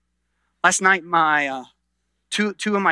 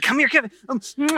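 little daughter's voice; 7 semitones higher, faster than usual. Retold or imitated. Father imitating his daughter kissing her brother, childlike and sweet. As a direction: play the toddler puckering up for candy.

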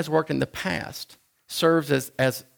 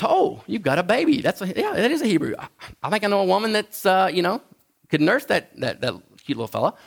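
lightly voiced eager sister, pitched up; a hint of a chatty young girl offering help; Moses' sister; 5 semitones higher than usual. Sister voiced in retold story.

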